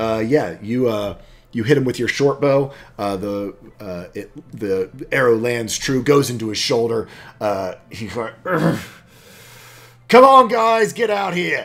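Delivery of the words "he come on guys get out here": loud yelling, much higher and louder. Narrating a fight, voicing an arrow-struck enemy calling to his comrades, loud yelling. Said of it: "Sorry if I yelled too loud on that".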